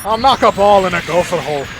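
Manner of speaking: a mock Scotsman pitching his silly game; Scottish golf inventor. Scotsman inventing golf, in a quick Scottish brogue. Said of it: "a riff on, like, Robin Williams' Origin of Golf".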